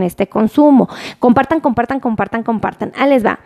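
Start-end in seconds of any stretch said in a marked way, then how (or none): 2.0-2.9 much softer, like an echo dying away; fading echo. Pretend. Host echoing her share request, fading softer. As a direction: let it fade out like an echo. Echoed repeat of share call.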